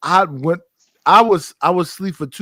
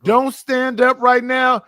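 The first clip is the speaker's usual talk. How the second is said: firm warning shout; 5 semitones higher than usual. Real, not acted. Warning drunk friend firmly.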